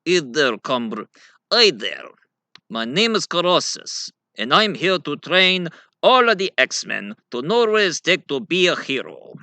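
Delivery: a hint of a hearty big trainer; Colossus. Colossus introducing himself to the X-Men, mildly hearty. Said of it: "the backbone of the bunch, Colossus".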